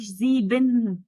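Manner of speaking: "زيبن" with a fully voiced "ben" at the end; wrong full ending. Shown as a demonstration. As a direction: pronounce the last syllable of "زيبن" as a clear BEN. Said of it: "البن اللي في الآخر دي لأ". ("زيبن" ببِن واضحة في الآخر، غلط)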